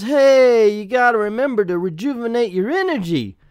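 loud, high-pitched hailing voice; hammed-up booming instruction; doctor calling out. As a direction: holler the reminder with cartoon urgency. Acts doctor calling out a reminder.

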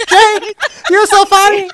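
high-pitched voice. Pretend. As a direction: pitch everything way up, playful. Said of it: "I wanna talk in a high-pitched voice this whole time".

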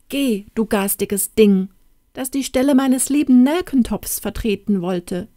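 put-on a touch of annoyance in the girl's voice; mild scolding. Girl kicks the cabbage aside, mildly scolding. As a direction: shoo the ugly thing away, lightly cross. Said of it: "stieß denselben mit dem Fuß fort und sagte".

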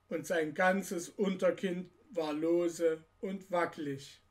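put-on measured read-aloud storytelling for children; story narration. A narrator's reading. The speaker reads Nussknacker und Mausekönig to children, story narration. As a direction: narrate an old Christmas tale to listeners.

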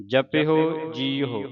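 ਜਪਿਓ ਜੀਓ slowly as ja-pi-ho ji-ho; slow model reading of ਜਪਿਓ ਜੀਓ, ending in -ho; careful reading demonstration. Shown as a demonstration. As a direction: sound the h in ਜਪਿਓ ਜੀਓ, drawn out. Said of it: "ਇਸ ਤਰ੍ਹਾਂ ਪੜ੍ਹਨਾ".

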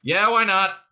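loud, high agreement; shouting back. A narrator's reading. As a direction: holler a ready agreement to a partner. Cop shouts back to partner.

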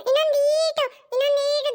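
ಈಟು stretched long. Acted. Child urging elder to step farther.

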